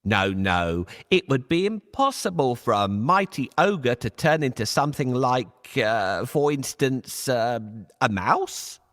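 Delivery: a hint of a crafty cat; Puss the cat. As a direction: feign doubt to trick him. Puss voiced.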